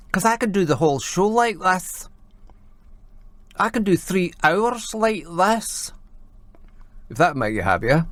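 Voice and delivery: gay Glaswegian voice. Shown as a demonstration. Host answering a complaining listener, gay Glaswegian voice. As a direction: put on a camp Glaswegian accent. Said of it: "a gay Glaswegian's voice".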